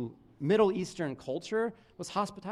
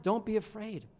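gentle reassurance. Retold or imitated. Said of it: "He says".

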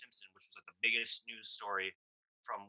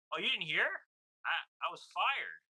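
imitating Norm Macdonald; 7 semitones higher, 5 dB louder than usual. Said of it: "He's like".

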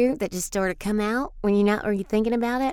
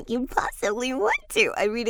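ordinary talk, nothing marked

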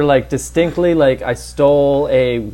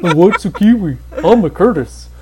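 laughing retake, dry and flat; deadpan; 5 semitones higher than usual. Retold or imitated. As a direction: say it dry through a grin.

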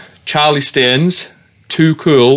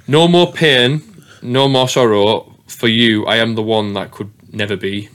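monotone voice; slower than usual. Shown as a demonstration. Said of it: "I read it with such a monotone voice".

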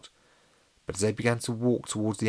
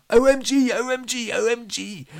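high, squealed panic on a loop; panicked repeating; 8 dB louder than usual. A narrator's reading. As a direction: squeal it over and over. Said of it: "said Jenny repeatedly".

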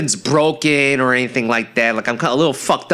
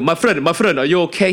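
higher-pitched imitated Arab accent; 6 semitones higher than usual. Delivery driver to the man he hit, worried Arab accent. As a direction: put on an Arab accent, anxiously checking. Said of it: "he's some Arab dude".

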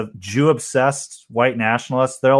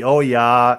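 Minnesota accent. Shown as a demonstration. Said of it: "how would a Minnesota Jew sound".

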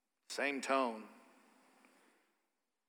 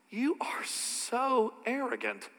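scornful whisper; 6 semitones higher, 6 dB quieter, slower than usual. Retold or imitated. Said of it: "Someone else hears that and goes".

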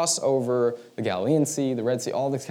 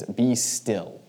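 calm command; 4 dB louder than usual. Retold or imitated. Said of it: "he just says".

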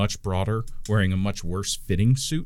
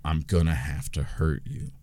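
menacing gnome; 4 semitones lower than usual. Acted. Gnome warns the party before a fight, low and menacing. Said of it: "the gnome goes".

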